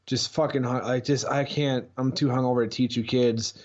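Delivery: a hint of a worn-out substitute; hungover teacher. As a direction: lightly play a teacher too hungover to cope. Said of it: "he was the hangover teacher".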